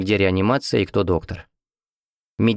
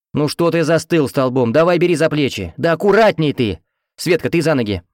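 loud, higher barked orders; bossy commands; 6 semitones higher, 3 dB louder than usual. A narrator's reading. Head nurse ordering the lift of the patient: loud bossy commands. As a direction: boss everyone around at full volume. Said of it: "скомандовала старшая".

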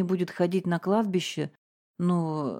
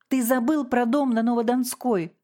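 higher, louder cry out of nowhere; sudden shout; 6 semitones higher, 3 dB louder than usual. A narrator's reading. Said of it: "вдруг закричала Регина Львовна".

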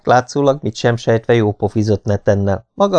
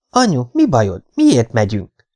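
put-on puzzled little boy; 3 semitones higher than usual. Son asks mother why.

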